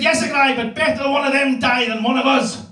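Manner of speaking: a hint of a scheming granny; sly granny. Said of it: "She said".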